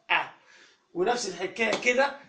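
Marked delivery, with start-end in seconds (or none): 0.1-0.3 "آ" like an alef with a fatha; short-a letter sound. Shown as a demonstration. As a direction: say "آ" as an open "ah". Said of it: "بقولها إزاي؟".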